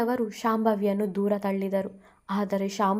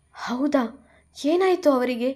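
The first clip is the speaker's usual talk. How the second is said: higher, worried ask; anxious question; 5 semitones higher than usual. Acted. Bhuvi asking the doctor about his daughter, anxious. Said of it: "ಆತಂಕದಿಂದ ಕೇಳಿದಳು ಭುವಿ".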